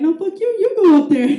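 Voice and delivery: loud, high cowardly comeback; re-enacted squabbling; defiant refusal. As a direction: throw the order right back at them. Acted quarrel with girlfriend.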